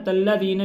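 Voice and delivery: तल्लज़ीना with a doubled l stress; wrong pronunciation. Shown as a demonstration. Teacher showing how not to read. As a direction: mispronounce सिरातल लज़ीना as तल्लज़ीना. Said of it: "नहीं करना".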